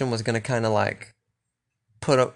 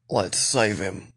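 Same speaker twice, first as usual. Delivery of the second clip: put-on Australian accent; 4 semitones lower, slower than usual. Rick pleading to spare Negan, slow mock Australian accent. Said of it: "I keep going Australian".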